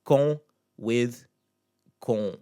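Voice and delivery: loud "Con" with nasalized oh; nasal O. Shown as a demonstration. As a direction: send the O of "Con" through the nose. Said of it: "start with the nasal sound".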